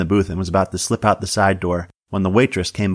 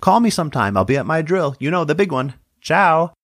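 much higher, showy sing-song voice; a sauntering, theatrical goodbye pitched way up; flamboyant farewell; 5 semitones higher than usual. Acted.

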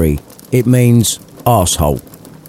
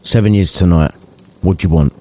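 flat dry reply; deadpan. Acted. Scrooge answering the collectors deadpan. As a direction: state it coldly. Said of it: "deadpan as you like".

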